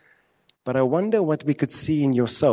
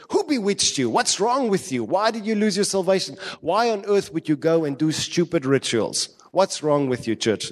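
high, scolding rebuke of the church; exasperated Paul; 5 semitones higher than usual. Retold or imitated. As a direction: scold them like a furious apostle. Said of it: "He doesn't start very nicely".

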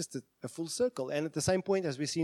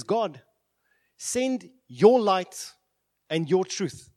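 crying out; 3 semitones higher, 6 dB louder, much slower than usual. Retold or imitated. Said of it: "He cries out".

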